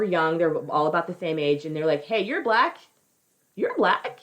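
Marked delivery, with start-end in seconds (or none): 2.0-4.2 high, hammed-up eager greeting; comic squeaky invitation; mock delighted recognition. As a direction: pipe up higher and higher, thrilled to find a buddy. Acts two young men meeting.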